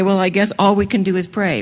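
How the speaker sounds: shrugging, defeated last resort; resigned, giving-up tone; resigned sigh. Retold or imitated. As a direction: say it like there's nothing left but prayer. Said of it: "and we will say".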